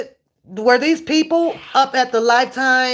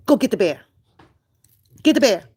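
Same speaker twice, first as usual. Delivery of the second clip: ordinary delivery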